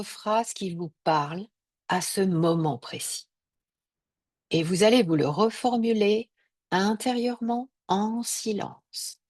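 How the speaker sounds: measured yoga nidra voice, pausing between phrases; guided meditation. Acted. Yoga teacher guiding listeners to repeat their sankalpa, calm meditation voice. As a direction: lead them gently through each breath. Guides silent repetition of intention.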